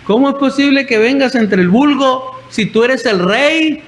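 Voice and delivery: high-pitched mock call, no real shout; retold yell. Michal calling to King David among the common people, mock yell. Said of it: "le grita y le dice".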